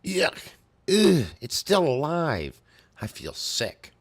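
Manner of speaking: high, loud, slow disgusted creature voice; disgusted monster. Acted. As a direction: spit out the revulsion like a wounded beast. Monster recoils from gore.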